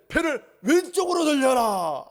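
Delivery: high, loud order to the crew; shouted order. Acted. Disciple as fisherman shouts at the crew. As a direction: bark the steering command. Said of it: "한다든지".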